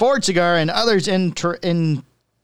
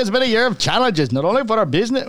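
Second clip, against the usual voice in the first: put-on Indian accent; 3 semitones higher, faster than usual. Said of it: "Well, that's Indian again".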